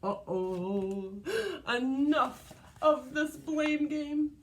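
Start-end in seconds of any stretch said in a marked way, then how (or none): 1.8-4.3 slow, louder stern mama; a hint of an angry mother; mild mama shout. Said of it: "she shouted".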